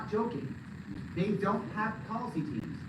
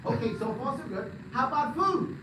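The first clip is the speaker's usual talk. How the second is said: excited crowd; 6 semitones higher, 4 dB louder than usual. Retold or imitated. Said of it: "And they went".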